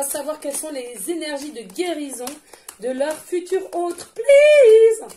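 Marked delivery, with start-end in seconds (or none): 4.1-5.1 high plea. Real, not acted. Pleading to spirit guides.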